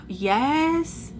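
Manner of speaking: high, drawn-out questioning call; calling to the door. Retold or imitated. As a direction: call out to whoever is knocking, rising. Answering a knock at door.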